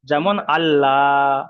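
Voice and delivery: যেমন আল্লাহ drawn out slowly with thin lam; teacher's slow thin-lam model; slow light Allah. Shown as a demonstration. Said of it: "লা করে পড়তে হবে".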